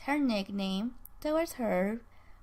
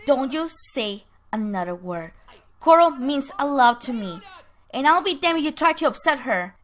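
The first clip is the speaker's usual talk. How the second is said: firm acted anger, building louder; angered warning; 2 semitones higher, 6 dB louder than usual. Herb defending Coral from Ben's remarks, angered. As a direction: warn them off, heat rising. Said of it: "And that angers Herb".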